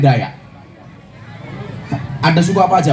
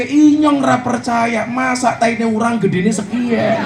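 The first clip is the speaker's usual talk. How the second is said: disbelieving Ngapak; 3 semitones higher, slower than usual. Retold or imitated. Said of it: "Orang ngapaknya nggak percaya".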